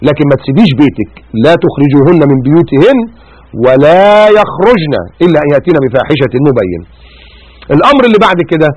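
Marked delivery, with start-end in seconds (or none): 1.4-6.8 Quran recitation. Acted.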